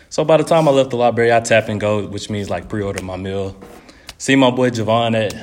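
out of breath after walking. Real, not acted. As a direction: talk short of breath, panting a little. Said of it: "I'm out of breath".

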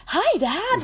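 put-on chirpy teenage boy; teenager voice. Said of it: "Johnny Depp's teenager voice".

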